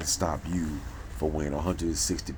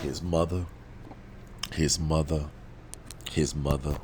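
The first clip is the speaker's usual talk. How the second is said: loud, insistent repeats with pauses between; emphatic repetition; 5 dB louder than usual. Real, not acted. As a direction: hammer the words home loudly.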